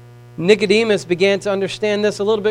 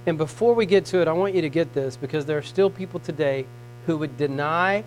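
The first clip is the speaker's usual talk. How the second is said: softer, lower earnest teaching; hushed preaching; 4 semitones lower, 5 dB quieter than usual. Acted. Preacher quietly pressing the point on listeners. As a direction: draw them close and lower the voice.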